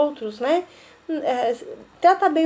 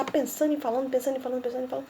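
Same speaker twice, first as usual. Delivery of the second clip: fading soft chant of thinking and talking; fading repetition; 3 semitones lower, 9 dB quieter, much faster than usual. Shown as a demonstration. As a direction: repeat it, fading softer each time. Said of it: "Pensar antes de falar".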